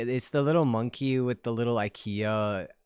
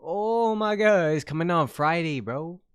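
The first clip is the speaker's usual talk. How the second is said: real delight at the news; thrilled; 6 semitones higher, 4 dB louder than usual. Real, not acted. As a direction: gush with excitement. Excited about release date.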